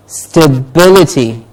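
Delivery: "Stability" as stuh-BIL-i-ty; stress before -ity. Shown as a demonstration. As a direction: model "Stability", beat on "bil". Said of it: "the syllable before ity is stressed".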